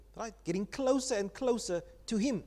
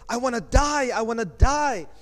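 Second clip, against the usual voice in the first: put-on toddler wail; 3 semitones higher, 7 dB louder than usual. Toddler whose sweets are taken away, loud whining wail. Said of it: "I take it away from him".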